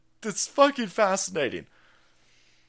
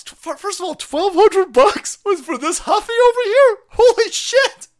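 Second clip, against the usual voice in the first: high, loud outraged yell at the price; 11 dB louder than usual. Real, not acted. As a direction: shout it in disbelief, way up high.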